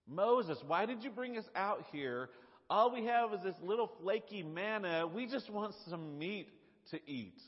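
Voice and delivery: mock whining of a hungry crowd; whiny complaint. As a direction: whine at Moses like a tired crowd. Mimicking Israelites whining at Moses.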